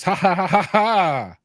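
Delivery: hearty mock laugh read from text. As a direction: read the laughter aloud as separate ha's. Reading written laughter aloud first time.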